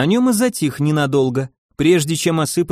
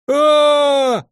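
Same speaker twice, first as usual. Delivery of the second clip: very high, loud scream; answering scream; 12 semitones higher, 4 dB louder than usual. A narrator's reading. Zombies in the tower scream back, very high and loud. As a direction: shriek back in terror. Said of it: "хором отозвались из башни".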